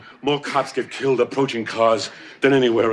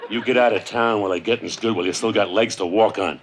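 tough guy act. Pretend. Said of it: "I'm practicing".

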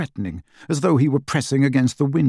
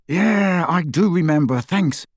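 through clenched teeth, irritated; gritted teeth; 6 semitones higher than usual. A narrator's reading. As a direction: bite back annoyance through teeth. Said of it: "said Harry through gritted teeth".

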